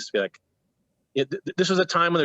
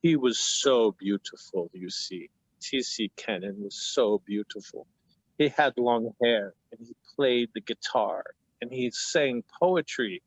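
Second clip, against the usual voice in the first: imitating teacher, morose; slower than usual. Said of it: "he would say things like".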